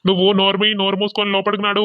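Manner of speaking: loud, sharp command to shut up; angry order. Acted. Husband ordering his wife indoors, loud and angry. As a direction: bark it at her to go inside.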